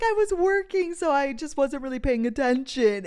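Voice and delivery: high voice settling after a laugh; amused imitation of his excuse; retold laughing excuse. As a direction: start high and giggly, easing down.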